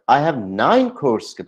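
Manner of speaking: nine said a little stronger; stress on nine. Shown as a demonstration. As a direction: lean on the word nine. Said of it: "तो मैं नाइन पे stress दूंगा". (नाइन पर ज़ोर)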